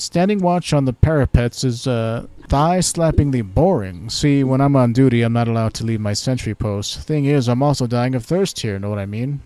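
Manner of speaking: mock British guard, hailing a stranger; British accent. Sentry hailing a passing stranger, in a light British accent. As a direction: play a bored British sentry. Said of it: "very British".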